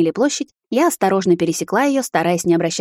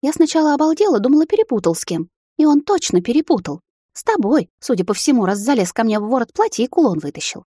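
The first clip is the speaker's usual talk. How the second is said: indignant sister; 6 semitones higher than usual. Acted. Sister voiced, indignant story.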